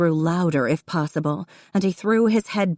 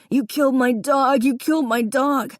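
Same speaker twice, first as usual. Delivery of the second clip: much higher, loud panicked wail; hysterical wail; 9 semitones higher, 3 dB louder than usual. A narrator's reading. Davy screaming for his puppy, hysterical. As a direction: cry out in terror for the dog.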